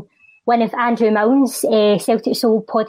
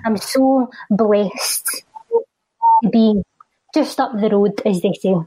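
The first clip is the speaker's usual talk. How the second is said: spoken word poem. Acted. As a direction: perform it like a heartfelt spoken word gig. Recites his Celtic poem.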